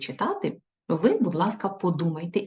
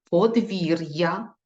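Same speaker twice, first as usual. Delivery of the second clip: подвір'я said slowly with a rise; slow checking read; much slower than usual. Shown as a demonstration. Teacher checking dictation, slow. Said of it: "Перевіряємо".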